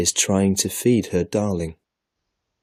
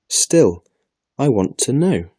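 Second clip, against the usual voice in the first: put-on a stubborn little girl, pitched high and insistent; 6 semitones higher, 5 dB louder than usual. A narrator's reading. Little Lily refusing to give up her question, stubborn. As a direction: dig in your heels and insist like a child. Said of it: "Lily says stubbornly".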